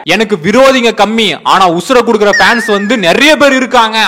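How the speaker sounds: slow mocking punch dialogue; swaggering movie one liner. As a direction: deliver it like a hero's punch line. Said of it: "ஒரு punch dialogue வேற". (ஸ்டைலான punch dialogue)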